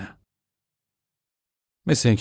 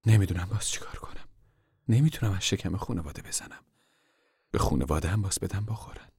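mild weary worry; 5 dB quieter than usual. Acted. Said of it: "مادر سرش را تکان داد".

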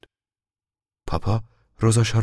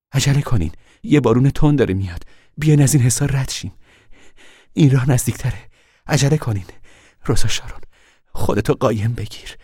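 louder, higher urgent shout; 7 semitones higher, 6 dB louder than usual. A narrator's reading. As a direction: call over the rain to hurry. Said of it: "مادر فریاد زد".

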